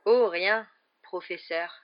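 a light mocking edge to the reply; slightly sarcastic. Malfoy answering the professor, lightly sarcastic. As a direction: toss it off with a hint of sarcasm. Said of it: "d'un ton légèrement sarcastique".

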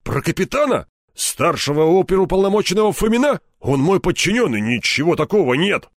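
scared colonel defending himself; flustered protest. Acted. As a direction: protest too fast. Colonel protesting his innocence.

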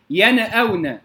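ينأون with a small vowel bounced after the noon; bouncing qalqala. Shown as a demonstration. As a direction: wrongly echo the noon in ينأون before the hamza. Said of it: "كما يقلقلها البعض". (قلقلة نون ينأون خطأً)

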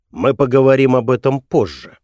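ordinary talk, nothing marked

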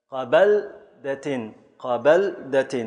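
قبلدة stretched slowly, syllable by syllable; slow scansion. Shown as a demonstration. Teacher slowly scanning قبلدة so students hear مفاعل. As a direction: pull قبلدة apart into its beats. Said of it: "مفاعل".

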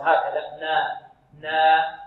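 "نا" with a plain open a, neither tilted nor rounded; open middle vowel. Shown as a demonstration. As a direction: open the a of "نا" moderately and hold it. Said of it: "يفتح النون فتحا متوسطا". (فتح النون في "نا" فتحا متوسطا)

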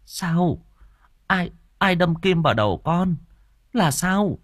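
high, alarmed questions; worried and high-pitched; urgent questioning. A narrator's reading. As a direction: press anxiously for an answer. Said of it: "vội hỏi".

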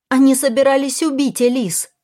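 high, loud shout; Kara shouts at William in her own defence. Acted. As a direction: yell it to make him understand. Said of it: "крикнула Кара".

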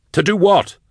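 high-pitched, incredulous demand; agitated challenge. Acted. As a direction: fire the question back, pitched high. Drusha challenges the caged plotter.

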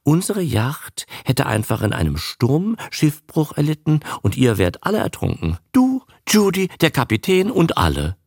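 hohe, süßliche Frauenstimme, verspielt; süß und schwärmerisch plaudern; süße Stimme. A narrator's reading. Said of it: "sagte ihre süße Stimme". (süße Stimme einer naiven Schauspielerin)

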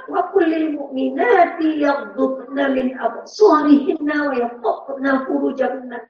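slow, measured Arabic recitation; slow reverent Quranic recitation. Acted. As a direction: recite the verse slowly and reverently. Quoting Quran verse for women.

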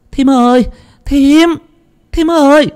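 high calls after her; woman chasing after her sister-in-law; calling out. Acted. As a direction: call her back, high and urgent. Hiền running after, calling.

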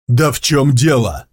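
a touch of a shout back at the beast; mild shouted question; yelled back. Acted. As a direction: yell the question back in alarm. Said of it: "заорал он в ответ".

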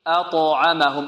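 أطعمهم slowly, light hamza, heavy bounced ط, light ع; light-heavy-light recitation. Shown as a demonstration. Teacher modelling recitation, أطعمهم slow with only ط heavy. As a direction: contrast the heavy ط with thin أ and ع in أطعمهم. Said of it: "عندنا همزة مرققة".

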